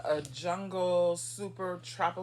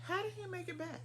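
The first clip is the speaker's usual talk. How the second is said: laughing disbelief; 13 semitones higher, 7 dB quieter than usual. Retold or imitated. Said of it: "people would go".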